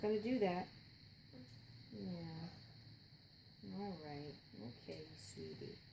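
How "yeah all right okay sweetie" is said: whisper. Real, not acted. Soothing son back to sleep.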